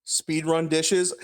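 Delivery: slow, rising, reading out the chat request; drawn-out chat request. Retold or imitated. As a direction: stretch it out like a question. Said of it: "I'm not doing speedrun dishes".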